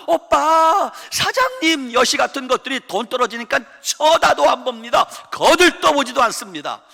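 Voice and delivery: high, loud coaxing 오빠 voice; fawning bar girls. Acted. Preacher mocking hostesses who fawned over the rich son. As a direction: coo like a flattering hostess.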